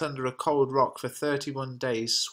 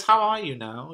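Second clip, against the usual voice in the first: a loud, raised challenge; loud greeting; 5 semitones higher, 6 dB louder than usual. Acted. Macbeth confronting the witches, loud. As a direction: call it out loudly as you burst in.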